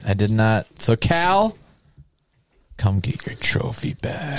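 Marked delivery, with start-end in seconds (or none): 2.8-4.4 breathy mock handover; unvoiced aside. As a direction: murmur it like a mock ceremony. Mock ceremony to Cal.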